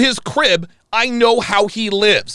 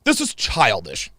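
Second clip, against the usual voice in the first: mock whiny critic; 4 semitones lower than usual. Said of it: "people who comment on what just happened".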